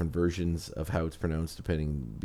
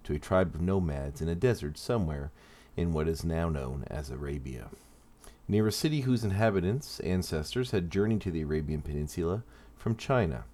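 measured, deliberate origin-story narration. Acted. Host tells subscribers a villain's origin, in measured story narration. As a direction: read it out as a scripted character history.

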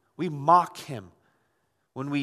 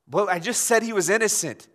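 higher-pitched mock protest as Pilate; acted protest; 4 semitones higher, 4 dB louder than usual. Preacher as Pilate objecting to the crowd, protesting. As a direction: push back at them, a little raised.

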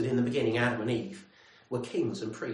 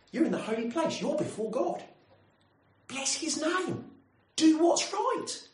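pilgrims calling out; 8 semitones higher than usual. Retold or imitated. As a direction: hail the priests across the temple.

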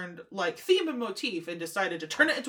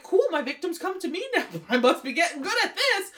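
gleeful; 8 semitones higher, 4 dB louder than usual. Retold or imitated. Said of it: "he's just like".

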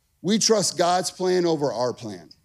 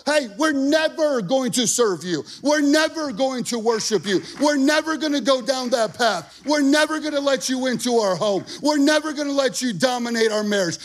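a bold, raised challenge to the enemy; defiant declaration; 3 semitones higher than usual. Pretend. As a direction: throw down the gauntlet with every never. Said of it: "open up your mouth and speak to the enemy".

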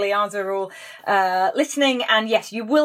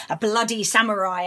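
lower, understated ominous cocktail name; name it with a touch of menace, pitched down; meant as chilling; 3 semitones lower than usual. Shown as a demonstration. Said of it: "meant to give you chills".

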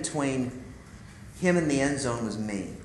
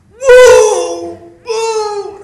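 high, loud whooping roar; coach's roar; 16 dB louder than usual. Retold or imitated. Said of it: "I heard this roar".

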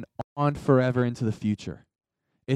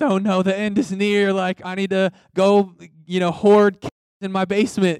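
higher, louder hammed-up alarm; mock panic; 4 semitones higher, 4 dB louder than usual. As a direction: play a panicking doomsday prepper, tongue in cheek. Mocking panicked believers hoarding supplies.

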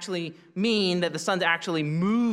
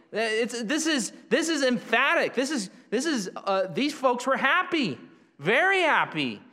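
excited emphasis; 7 semitones higher than usual. Real, not acted. Emphatic joy in the Magi's rejoicing.

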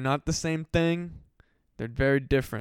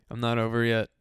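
whispered teasingly; a hushed sly whisper; 3 semitones lower than usual. Real, not acted. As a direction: lean in and whisper it. Sudden whisper to listeners.

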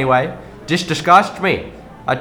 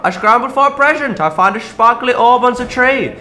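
panicked; 5 semitones higher than usual. Acted. Panicked retelling.

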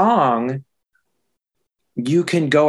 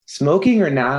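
put-on Minnesota accent; 2 semitones higher than usual. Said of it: "say it in a Minnesota accent".

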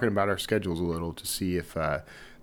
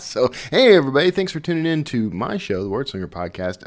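late-night talk show host; 5 semitones higher, 6 dB louder than usual. Acted. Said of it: "thought I'd play that, that just a bit".

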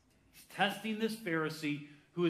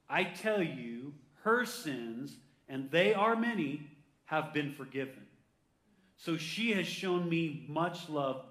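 slow, measured preacher's reading; scripture reading; slower than usual. Acted. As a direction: draw each phrase out deliberately. Reads Jesus's words from scripture.

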